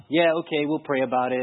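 low, noncommittal mock agreement; pat answer. Husband giving the recruiter pat answers, noncommittal. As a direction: imitate a polite brush-off, pitch dropped. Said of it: "giving him all the pet answers".

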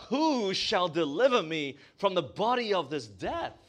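ordinary talk

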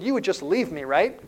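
a hint of a child seeking confirmation; young son. Son checks with dad on the sled, lightly childlike. Small son's question in story.

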